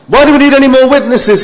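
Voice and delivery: high, loud indignant priest voice; outraged high priest. Retold or imitated. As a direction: voice the high priest tearing his clothes.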